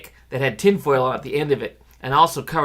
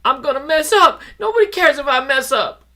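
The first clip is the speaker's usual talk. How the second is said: mild yell; 11 semitones higher, 5 dB louder than usual. Acted. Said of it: "ran from the room yelling".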